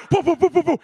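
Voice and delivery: rapid rhythmic rotor boos; imitated helicopter noise. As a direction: imitate blades whirring round. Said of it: "She starts doing the helicopter".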